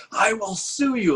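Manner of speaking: high, slow whiny threat; high-pitched slow mock threat; lawyer threat. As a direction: whine it like a pompous lawyer.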